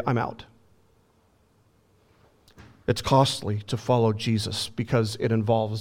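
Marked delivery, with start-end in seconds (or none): 0.0-0.5 mock quit. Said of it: "fallen man will say".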